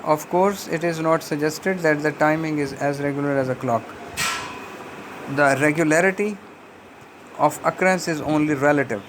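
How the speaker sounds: slow, careful reading aloud from the book; deliberate classroom read-aloud; slow textbook reading. Acted. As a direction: read each phrase out slowly for the class. Reads the textbook passage aloud.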